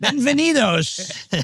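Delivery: Donald Trump. Retold or imitated. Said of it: "If Donald Trump came out in the middle of a debate".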